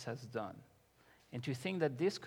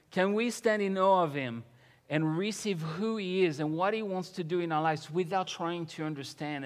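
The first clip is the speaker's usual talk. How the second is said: lifted, louder voice urging the congregation; stirring sermon appeal, pitched up; fervent preaching; 4 semitones higher, 5 dB louder than usual. Real, not acted. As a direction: preach it with building conviction. Preaches with rising force.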